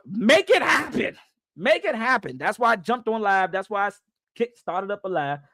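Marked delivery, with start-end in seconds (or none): 0.1-2.4 hyped fan hollering for action; excited fan shout. Retold or imitated. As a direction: re-enact shouting at the team, easing on the repeat. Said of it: "I get excited".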